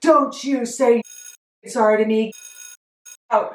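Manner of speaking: acted, mild, high-pitched, curt half-yell. Speaker acts out a man ordering her out after her apology, retelling a yell. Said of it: "he is still yelling".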